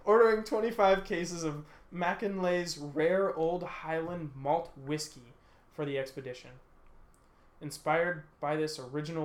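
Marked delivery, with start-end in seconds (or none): 0.0-6.5 slightly slow, lightly put-on British accent; a hint of British accent while reading. Host reading the expedition order, lightly mock British accent. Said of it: "I guess I should use a British accent".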